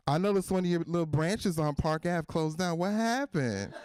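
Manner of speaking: mock-concerned ex, rising at the end; bitter ex-girlfriend. Jilted ex asking about closed branches, bitter fake concern. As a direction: ask with fake innocent concern. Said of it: "like a bitter ex-girlfriend".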